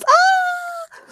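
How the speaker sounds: sharp high yelp of fright; a sudden frightened cry out; startled shriek. Acted. Woman grabbed by the investigator, shrieking.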